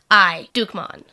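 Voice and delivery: lightly voiced grandma-like knight; a hint of a grandma voice, announcing yourself; Dukemon voice. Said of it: "I'll try to do a Dukemon voice".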